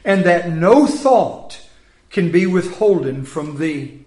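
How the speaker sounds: measured, solemn Bible reading; scripture reading. Acted. Preacher reading Job to the congregation, solemn.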